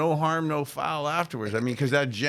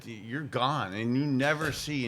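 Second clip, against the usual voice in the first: calm firing; 3 semitones lower, 4 dB quieter than usual. Retold or imitated. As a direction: cut him loose without raising the voice. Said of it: "you could very calmly just say".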